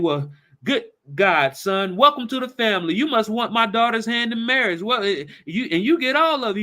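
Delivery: high, overjoyed welcome; delighted. Acted. Jed welcomes John into the family, high and overjoyed. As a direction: throw open your arms with your voice.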